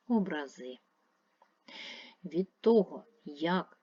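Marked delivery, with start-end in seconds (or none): 0.1-0.8 образи with the final -зи stressed; stress on last syllable. Shown as a demonstration. Teacher contrasting word meanings, last-syllable stress on образи. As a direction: land on the end of образи. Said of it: "мають різний наголос".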